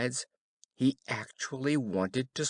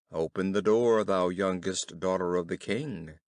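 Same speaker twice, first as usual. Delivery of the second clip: frog voice called louder at the door; Frog calling; 4 semitones lower, 4 dB louder than usual. A narrator's reading. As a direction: call through the door like the frog.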